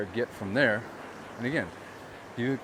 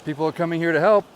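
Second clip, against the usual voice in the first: 1 indignant; 7 semitones higher, 9 dB louder than usual. Real, not acted. Angry rant about response.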